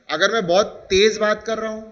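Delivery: तेज punched out from the sentence; stress on तेज. Shown as a demonstration. Teacher showing how stress is given, stress on तेज. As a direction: lean firmly on the word तेज. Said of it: "stress देने की कोशिश कर रहा हूँ".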